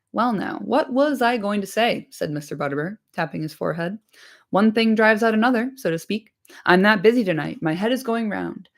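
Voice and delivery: lightly voiced bustling innkeeper; chatty landlord. Butterbur chattering to the hobbits, lightly voiced.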